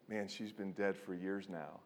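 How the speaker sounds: soft, subdued retelling; quiet, understated sorrow; sober grief. Retold or imitated. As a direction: let the fun drain away. Laughter rolls into tears, sober confession.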